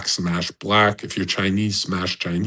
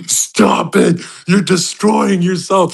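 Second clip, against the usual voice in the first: higher, slowed-down scold; put-on nagging voice, higher and slower; mock scolding warning; 8 semitones higher, 3 dB louder, slower than usual. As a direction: wag a finger at her in a put-on voice. Publicity scolding a blonde.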